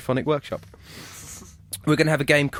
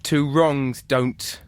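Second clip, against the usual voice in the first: very slow, drawn-out prompt; very slow reading; much slower than usual. Shown as a demonstration. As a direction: draw it out even more slowly. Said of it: "rereads prompt".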